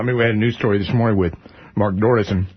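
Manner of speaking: chewing while talking; mouth full. Real, not acted. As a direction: talk through a mouthful. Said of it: "I'm still talking with my mouth full here".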